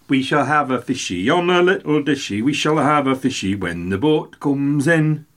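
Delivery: song line in a put-on Geordie accent, drawn out at the end; attempted Geordie accent. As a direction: have a go at Geordie, stretching the last words. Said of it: "an attempt to a Geordie accent".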